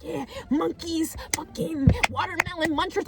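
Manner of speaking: put-on voice for a quoted friend; Jada. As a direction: imitate a friend, drawing the words out. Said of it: "but Jada was like".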